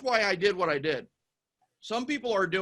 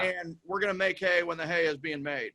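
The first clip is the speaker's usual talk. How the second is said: earnest promise to family; 4 dB louder than usual. Pretend. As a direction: pledge it to your family like you mean it. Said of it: "Tell your family now".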